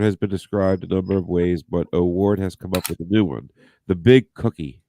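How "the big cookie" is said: hushed, breathy headline reveal; dramatic whisper. Acted. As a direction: whisper it like a secret.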